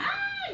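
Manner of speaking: sudden high cry of alarm; a mild mock scream down the phone; short shocked yelp; retold scream.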